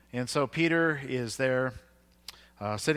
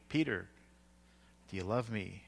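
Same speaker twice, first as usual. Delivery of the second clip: gentle questioning; 4 semitones lower, 6 dB quieter than usual. Retold or imitated. Jesus gently asks Peter again, retold.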